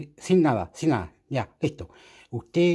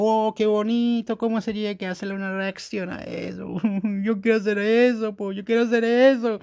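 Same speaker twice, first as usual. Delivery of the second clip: imitating his own excitement; 7 semitones higher than usual. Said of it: "Yo veo cuestiones".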